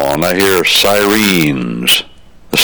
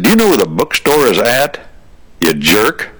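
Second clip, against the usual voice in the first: cheeky comeback; 5 semitones higher than usual. Retold or imitated. Kid snaps back at snob.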